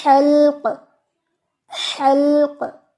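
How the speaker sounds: हल्क with no vowel between l and k; correct pronunciation. Shown as a demonstration. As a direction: say हल्क as one tight syllable. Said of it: "हलक नहीं कहना".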